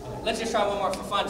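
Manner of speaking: ordinary delivery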